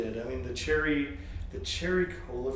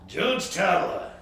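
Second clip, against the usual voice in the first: slow drawn-out name; 4 semitones higher, 3 dB louder, much slower than usual. Pretend. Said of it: "slow, drawn-out name".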